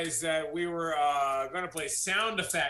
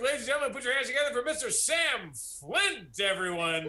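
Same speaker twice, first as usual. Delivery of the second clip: grand entrance announcement; 4 semitones higher than usual. Acted. Host introduces the sound effects guest.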